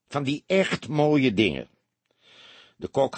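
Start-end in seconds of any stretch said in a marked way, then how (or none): 0.1-1.7 higher smirking repeat. A narrator's reading. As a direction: relish it with a smirk, pitched up. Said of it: "meesmuilde hij". (meesmuilend, met hogere stem)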